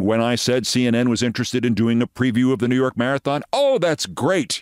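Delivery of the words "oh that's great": put-on slow, with a thick European accent. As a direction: stretch it out in a heavy European accent. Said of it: "he said in a rather thick European accent".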